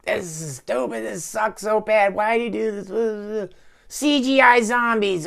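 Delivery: imitating riffers ranting at bad CGI, high and whiny; mock angry ranting. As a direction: parody a fed-up viewer griping at the movie. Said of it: "angry ranting riffing".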